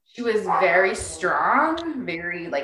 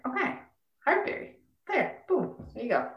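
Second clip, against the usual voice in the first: high mock cheer; 5 semitones higher, 7 dB quieter than usual. Acted quote of own reaction.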